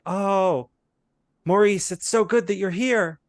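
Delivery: put-on high, loud, overwrought old lady; distraught old lady. Old lady greeting Maurice, high distraught soap wail. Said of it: "She's quite distraught".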